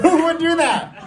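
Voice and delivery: high, loud, disbelieving "Who would do that?"; incredulous cry. Acted. Mock outrage at signing up.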